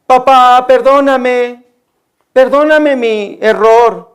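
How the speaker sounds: imitating a crying daughter, slow drawn-out begging; lightly acted whimpering apology, words stretched; mock tearful plea. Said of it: "mi hija está llore y llore". (súplica llorosa imitada, alargando las palabras)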